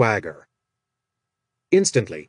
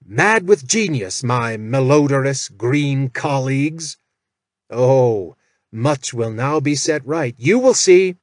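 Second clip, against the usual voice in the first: a manic, gleeful call to the goblins; lightly voiced mad proclamation; mad genius call. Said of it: "Jack called to them".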